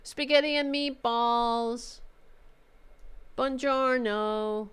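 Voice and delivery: high blast easing into slow drawn-out words; hammed-up, mocking phrasebook show-off; mock fake polyglot. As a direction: imitate someone faking fluency. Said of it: "When you're like".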